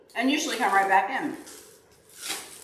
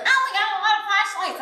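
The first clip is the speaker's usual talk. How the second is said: higher-pitched mock husband, brushing it off; dismissive husband quote; 12 semitones higher, 3 dB louder than usual. Wife retelling husband's reply about flashlights, mildly mocking and dismissive. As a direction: imitate a husband waving away the request.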